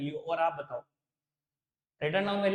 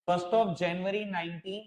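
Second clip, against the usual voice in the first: very slow, word by word, for notes; slow dictation; much slower than usual. Shown as a demonstration. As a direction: dictate each word slowly. Dictates the date again. (धीरे-धीरे लिखवाते हुए)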